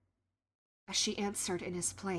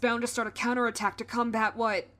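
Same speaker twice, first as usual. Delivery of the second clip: urgent guard; 2 semitones higher, 7 dB louder than usual. Acted. Guard urgently asks queen for orders.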